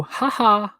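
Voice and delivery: mock, hammed-up "Ha ha"; fake laugh. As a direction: force a fake laugh for the crowd. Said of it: "I pretended to laugh too".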